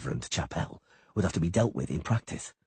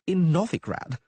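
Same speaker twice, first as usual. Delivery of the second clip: high, whiny bard; whining; 12 semitones higher, 4 dB louder, slower than usual. A narrator's reading. Scared poet Dandelion whining at the halfling, high and plaintive. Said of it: "Dandelion whined".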